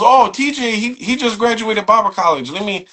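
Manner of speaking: put-on high-pitched Vietnamese accent; imitating a Vietnamese shop owner. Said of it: "hardcore Vietnamese accent".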